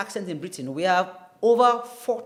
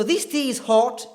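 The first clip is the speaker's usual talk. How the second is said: British RP "hot" with rounded O; higher-pitched British demo of "hot"; British accent; 5 semitones higher, 4 dB louder than usual. Shown as a demonstration. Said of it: "is typical British accent".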